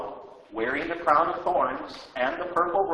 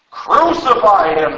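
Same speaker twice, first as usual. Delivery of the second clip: loud, slow, drawn-out yell; shouted back; 5 semitones higher, 12 dB louder, slower than usual. Acted. Crowd answering Pilate, slow loud shout. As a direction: hurl it back at him. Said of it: "they all shouted back".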